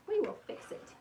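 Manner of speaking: high, determined promise to the crooked wreath; emphatic reassurance. Real, not acted. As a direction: insist "We will fix it" up high, word by word. Repeats reassurance more emphatically.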